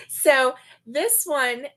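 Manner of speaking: slow, wide-eyed amazement; drawn-out marvelling at the size; amazed. Real, not acted. Showing viewers a huge crochet claw, slowly amazed. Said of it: "I am in amazement".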